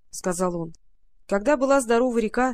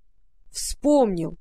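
exclaiming; much slower than usual. A narrator's reading. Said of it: "вдруг закричал Юи".

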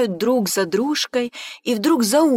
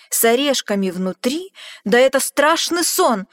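louder, rising alarm; shy away in fright; alarmed monster; 3 semitones higher, 5 dB louder than usual. Acted. Gruffalo crying out in alarm at being eaten himself.

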